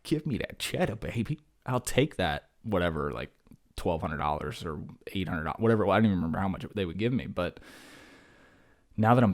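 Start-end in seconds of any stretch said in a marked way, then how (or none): 0.0-5.8 greedy younger self. Retold or imitated. Teacher imitating his younger self getting a tax refund, mock-greedy glee. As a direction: play your past self happily taking the money. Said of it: "I was like".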